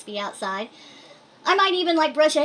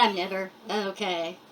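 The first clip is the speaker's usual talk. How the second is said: deadpan joke answer; 3 semitones lower, 4 dB quieter than usual. Pretend. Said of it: "I wanted to answer it".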